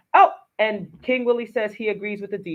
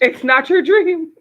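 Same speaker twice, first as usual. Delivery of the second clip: emphatic echo; 9 semitones higher, 9 dB louder than usual. Real, not acted. Co-host echoes guest emphatically.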